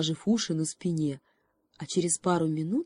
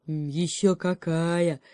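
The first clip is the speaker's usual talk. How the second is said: slow, proud bear bragging; boastful; slower than usual. Acted. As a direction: drawl it out, showing off. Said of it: "похвастался медведь".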